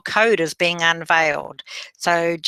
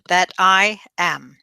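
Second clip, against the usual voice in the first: "I am" set apart and emphasised at the end; stress on "I am"; slower than usual. Shown as a demonstration. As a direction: lean on both words of "I am". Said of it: "put the emphasis on the "I am".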